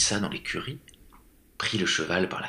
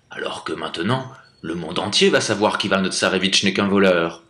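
reproachful tsar; 4 dB louder than usual. Acted.

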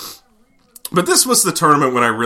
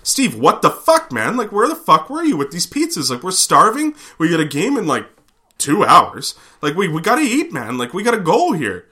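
mock yelling at Steve; 8 semitones higher than usual. Calling out at late Steve.

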